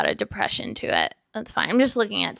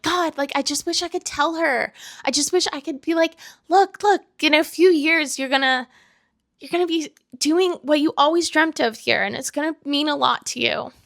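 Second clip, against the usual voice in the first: high, emotional plea to a younger self; earnest and choked up, pitched high; tearful; 4 semitones higher than usual. Real, not acted. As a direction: reassure your past self through tears. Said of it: "while I'm crying".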